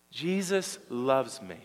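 slow, deliberate declaration to be repeated; slow affirmation. Shown as a demonstration. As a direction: lead the congregation word by word. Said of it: "Say it again".

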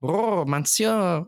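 high, slow, drawn-out cat voice; cat impersonation. Acted. Showing off a cat impersonation, high and drawn out. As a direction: stretch it out like a trilling cat. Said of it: "impersonation of a cat".

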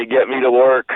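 ordinary delivery

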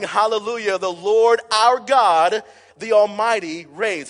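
loud, high, drawn-out proclamation; shouted praise. Acted. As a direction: preach it out as a triumphant congregational shout. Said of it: "They are shouting".

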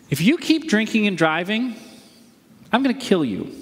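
deliberate, threatening demonstration; threat. Shown as a demonstration. Pastor illustrating a threat to the congregation, threatening. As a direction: lay it down as a personal threat. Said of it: "Here's a threat".

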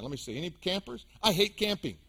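ordinary talk, nothing marked

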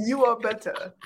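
put-on British accent through giggles. Shown as a demonstration. Complimenting co-host's accent, British accent. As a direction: try British while amused. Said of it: "give me your British accent".

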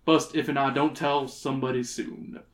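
put-on folksy old prospector voice. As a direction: talk like a rustic old-timer. Reads old prospector's dialogue.

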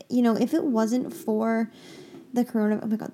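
talking out in the wind; wind noise. Real, not acted. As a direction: voice against loud wind. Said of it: "the wind is so loud".

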